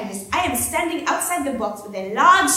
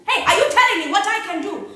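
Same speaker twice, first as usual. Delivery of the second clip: louder, higher, repeating the threat; angry officer shout; 8 semitones higher, 7 dB louder than usual. Acted. Officer shouting back at the protesting girl, angry. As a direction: bark it at the student.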